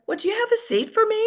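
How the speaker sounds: high, fast, entitled ask; mock-entitled high quick demand. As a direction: demand the seat as if owed it. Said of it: "demanding almost".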